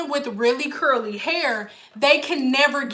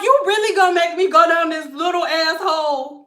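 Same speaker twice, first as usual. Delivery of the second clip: mock indignant hair; 3 semitones higher than usual. Hair complaining about follicle.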